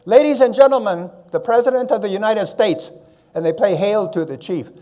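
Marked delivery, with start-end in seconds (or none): 0.1-2.9 louder, higher formal announcer call; announcer intro. Retold or imitated. At the White House, announcing the President to the audience. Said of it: "he comes out and says".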